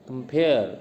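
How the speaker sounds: कंपेयर with the weight on the final पेयर; stress on पेयर. Shown as a demonstration. Teacher demonstrating stress in कंपेयर, second syllable पेयर stressed. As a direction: lean on पेयर in कंपेयर, letting it fall. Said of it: "कंपेयर में stress देते हैं पेयर पे".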